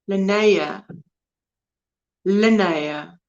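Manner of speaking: Linnea repeated as "lin-NAY-a"; practised pronunciation. Shown as a demonstration. Host practising a viewer's name, Linnea said carefully as "lin-NAY-a". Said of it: "Where, emphasis on".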